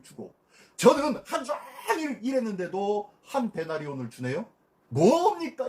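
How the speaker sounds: indignant worker complaining to the master; a retold grumble, mildly acted; arguing protest. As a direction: press the master hard, voice jumping on 왜. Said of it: "주인 앞에 막 따지는 거예요".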